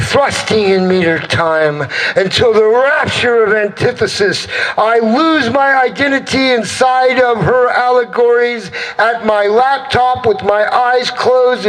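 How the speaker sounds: driving slam-poetry build, rising in pitch; rhythmic, insistent poet's crescendo; spoken-word climax. Acted. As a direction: build relentlessly toward the peak.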